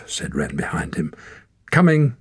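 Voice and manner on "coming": sharp irritated snap; snapped. A narrator's reading. Torak snapping back at Ren, snapped. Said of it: "snapped Torak".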